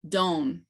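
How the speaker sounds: don as a nasal O without a sounded N; nasalized Kiowa vowel. Shown as a demonstration. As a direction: say don through the nose, no N. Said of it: "doesn't have an N sound in it at all".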